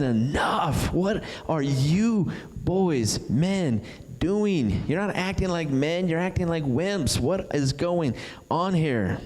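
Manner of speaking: lightly voiced frustrated teen; young David telling the soldiers off; frustrated rebuke. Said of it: "David starts saying".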